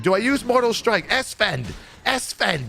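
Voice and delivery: very high mock Australian panic; Chinglish, triggered. Triggered player calling a friend across the room, mock panic. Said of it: "he was so triggered the entire time".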